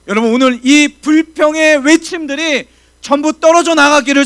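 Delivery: loud, high, impassioned sermon voice; fervent preaching. Acted. Pastor exhorting the congregation to pray willingly: impassioned full-force preaching.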